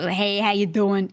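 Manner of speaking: lightly imitated drawn-out, casual greeting; Tony's greeting. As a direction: toss out a slow, easy hello as a passer-by, lightly acted. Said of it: "he, he walks past and".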